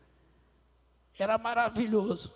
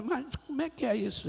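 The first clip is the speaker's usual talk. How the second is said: repete a pergunta mais alto e rápido, sem paciência; insistindo, impaciente; 4 semitones higher, faster than usual. Retold or imitated. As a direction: cobrando uma resposta, acelerado. (pergunta insistente ao Senhor, mais rápida)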